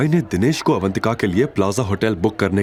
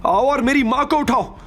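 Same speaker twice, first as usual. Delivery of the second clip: higher, shrill-pitched scornful female voice; jealous accusing wife; 11 semitones higher than usual. A narrator's reading. Nandini accusing Avantika and Shivay, jealous and scornful. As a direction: accuse them with jealous contempt.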